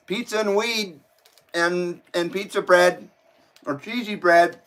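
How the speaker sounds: eating while talking; talking through a mouthful; mouth full. Real, not acted. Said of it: "Sorry to eat in front of you guys there".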